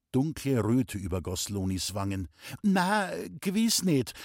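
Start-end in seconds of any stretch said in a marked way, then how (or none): 2.6-4.1 langsam, höher und stockend; stotternd. A narrator's reading. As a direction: stottere verlegen. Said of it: "stotterte sie". (Loni stottert errötet vor Pauli)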